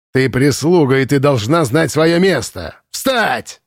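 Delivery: stern voiced commandant barking a command; commandant's order. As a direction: put the servant in her place. (комендант приказывает служанке, сурово)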